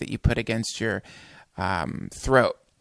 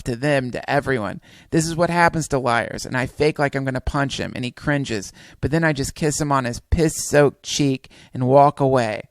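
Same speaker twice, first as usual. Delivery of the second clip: driving, insistent narration of a tall tale; dramatic story reading. A narrator's reading. Narrator berating the president in his story, dramatic reading. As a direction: build the accusations like a speech.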